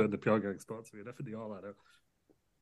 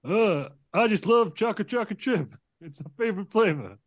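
Joe Biden; 8 semitones higher than usual. Acted. Biden voiced by S0.

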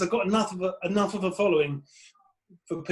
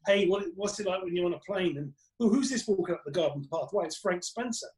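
mock commercial comic; 3 semitones higher than usual. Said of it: "I was very commercial".

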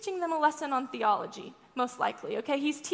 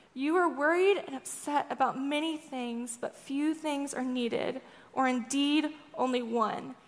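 kind reply. Retold or imitated. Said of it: "really kindly, really tenderly".

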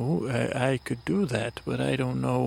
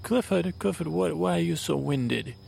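surprised call; 5 semitones higher than usual. Acted. Calls to tired Clifford.

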